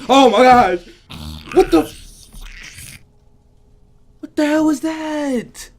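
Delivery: high, very loud shriek of fright; real jump-scare panic, pitch shooting up; terrified shout. Real, not acted. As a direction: scream out as if jumped. Jump scare while reading.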